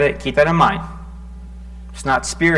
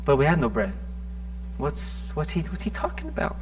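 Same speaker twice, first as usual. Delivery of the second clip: confused disciples; 8 dB quieter than usual. Acted.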